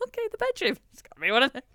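high, fretful mock panic. Bride with no mirror, hunting the bedroom in mock panic. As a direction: squeak it out like you're half panicking. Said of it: "And I was like".

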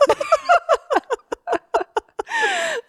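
big squealing laugh; high helpless laugh. Real, not acted. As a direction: burst into a high-pitched cackle. Recalling passing out, laughing.

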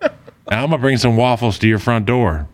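trash-talking wrestling promo. Acted. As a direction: call him out like a wrestler. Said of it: "We just cut a promo".

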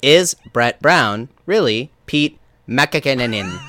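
stiff synthetic site voice; robot voice. Pretend. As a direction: read it like an automated voice. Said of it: "You do a better robot than I do".

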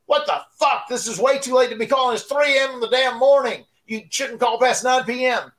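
high, indignant scolding; dad's angry rant. Retold or imitated. Dad scolds Sandman for calling at three AM, high and angry. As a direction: tell off the late caller.

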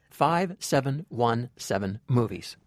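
five seven one seven movies said slowly and clearly; slow deliberate repeat. Shown as a demonstration. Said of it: "I repeat".

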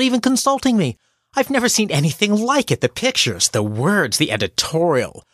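letter read as a snide insult; mock-sweet, bitter sarcasm; nasty reading. Shown as a demonstration. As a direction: make every line a dig. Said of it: "Only I read it a little differently".

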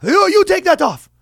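high, scolding mock accent; a hammed-up strict dad voice; mock Muslim dad. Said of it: "That was a Muslim".

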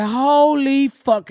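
slow, drawn-out shout of shock; a slow, stunned mock shout. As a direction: stretch it out in horror. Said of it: "I was like".

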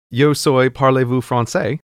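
a hammed-up schoolbook French accent; mock French accent. Shown as a demonstration. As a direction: rattle off French like a tourist showing off. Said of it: "are people gonna think I sound stupid".

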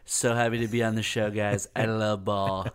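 lightly voiced Trump bluster; a hint of Trump, boastful and folksy; mock Trump guest bragging on the show; Trump impression. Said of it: "That's a pretty good Trump".

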